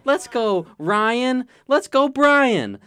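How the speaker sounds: loud hyped frat bro voice; rowdy party bro. Acted. Podcast host bro voice.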